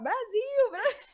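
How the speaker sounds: high-pitched mock crowd yell; retold cheering shout. Group of travelers yelling at a TV reporter, high retold shout. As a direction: call it out like an excited chant. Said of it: "a gente começou a gritar".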